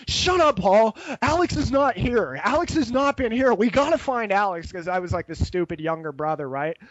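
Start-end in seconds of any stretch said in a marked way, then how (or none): 0.1-4.7 mock yelling at friend.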